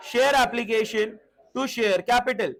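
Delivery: drawn-out, word by word; slow dictation. Shown as a demonstration. Teacher calling out the next entry, very slow. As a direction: read the entry slowly so the class can follow. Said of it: "next entry".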